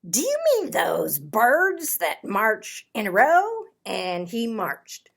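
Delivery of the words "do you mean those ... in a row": goofy Tacky. Acted. Tacky asks hunters, louder voice.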